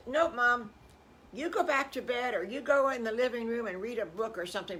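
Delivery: put-on high, insistent storytelling voice for the boys; insistent piglets. Boys shoo Mom back to bed.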